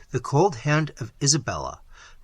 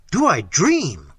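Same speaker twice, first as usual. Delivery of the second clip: cried out; 3 semitones higher, 6 dB louder, slower than usual. Acted. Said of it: "cried Manfred".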